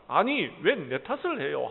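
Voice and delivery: wife snapping back at her husband's blame; angry retort. Acted. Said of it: "하고 화를 내었습니다".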